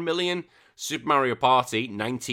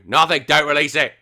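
emphatic plea; 3 semitones higher, 8 dB louder than usual. Real, not acted. Answering own question on sequel.

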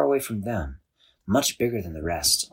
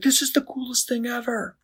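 higher, wide-eyed delight; thrilled; 14 semitones higher than usual. A narrator's reading. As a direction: gush with boyish wonder. Chris delighted by talking balloons.

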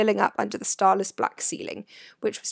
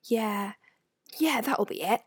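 reassured; 2 semitones higher than usual. A narrator's reading. Ron accepting Harry's explanation for Hagrid's absence, reassured. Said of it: "sounding reassured".

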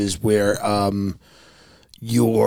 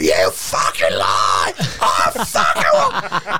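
Australian tourist; 5 semitones lower, much slower than usual. Retold or imitated. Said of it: "they'd be Australian".

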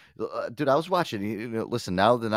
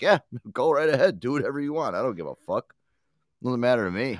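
mock Amber Heard; 3 semitones higher, 4 dB louder than usual. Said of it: "She'd probably be like".

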